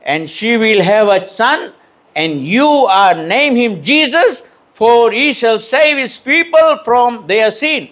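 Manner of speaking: slow, measured English verse; slow scripture reading. Acted. Preacher reading scripture slowly to the congregation. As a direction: read the verse slowly and solemnly. Reads Matthew 1:21.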